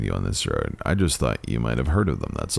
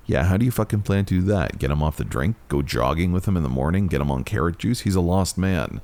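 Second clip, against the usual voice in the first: scoffing cop; 5 semitones higher than usual. Acted. Cop scoffing in narrated story.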